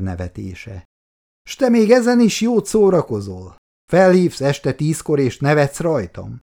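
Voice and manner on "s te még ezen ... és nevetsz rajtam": high, indignant outburst from a narrated character; rising into anger, voice pitched up and louder; indignant, high-pitched reproach; starting to rage. A narrator's reading. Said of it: "kezdett bele a dühöngésbe Zoltán".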